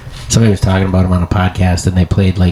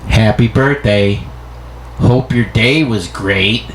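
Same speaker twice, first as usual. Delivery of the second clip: slow, flat sarcastic birthday wish; grudging, drawn-out greeting; negative tone; much slower than usual. Shown as a demonstration. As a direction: read it as if resentful. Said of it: "that negative kind of tone".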